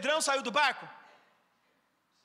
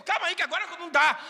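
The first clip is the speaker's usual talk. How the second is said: flustered brush-off; 4 semitones higher, 5 dB louder, faster than usual. Retold or imitated.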